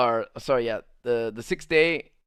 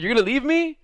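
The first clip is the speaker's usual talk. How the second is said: higher-pitched imitation of her question; retold worried question; 9 semitones higher than usual. Girl asking her friend not to go, mock worried question. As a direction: ask it high, imitating her.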